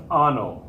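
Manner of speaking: "ano" with a plain n, no ny glide; ano without tilde. Shown as a demonstration. Teacher showing students what dropping the tilde does, plain-n mispronunciation. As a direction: say "ano" with a hard English-style n. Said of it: "If you drop that tilde".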